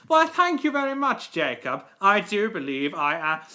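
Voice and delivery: lightly pompous engine voice; vainglorious. Acted. Thanking Jacob for praise, in a vainglorious voice. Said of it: "quite a vainglorious voice".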